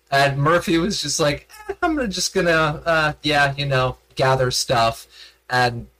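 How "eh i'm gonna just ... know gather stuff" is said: mock dismissiveness. Retells player shrugging off the fight.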